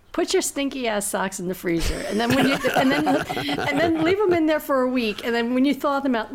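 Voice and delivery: giggling through the instructions; laughing. Real, not acted. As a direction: laugh while explaining the joke. Laughing while giving silly instructions.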